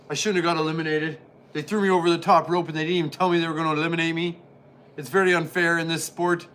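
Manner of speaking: fast whiny complaining; sore loser football player. Pretend. Eliminated football player complains to Mean Gene, fast whiny rant. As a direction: rush through the grievance like a sore loser. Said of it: "looks just absolutely choked".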